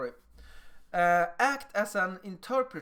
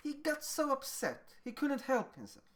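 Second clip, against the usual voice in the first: put-on higher, softened reassurance to a child; gentle explaining; 6 semitones higher, 4 dB quieter than usual. Adult explaining a friend's upset to a child, gentle explaining. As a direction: softly excuse the other child's outburst. Interpreter soothing protesting child.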